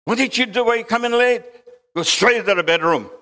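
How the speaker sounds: high-pitched cross mother; mock motherly telling-off; scolding mom. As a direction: scold a child like an annoyed mom. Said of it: "And then mom sa-, says".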